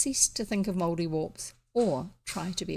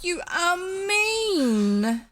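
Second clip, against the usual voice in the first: slow, tearful, much higher; crying; 9 semitones higher, 5 dB louder, much slower than usual. A narrator's reading. Elfrida reproaches the highwayman, slow and tearful. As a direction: drag it out on the edge of tears. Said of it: "she cried".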